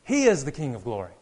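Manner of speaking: loud, high proclamation, hammering each title; triumphant shout. Retold or imitated. David and the procession answering the watchman, triumphant shout. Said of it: "all in a loud, triumphant voice, shout out".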